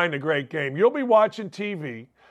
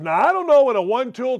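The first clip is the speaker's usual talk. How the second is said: ordinary delivery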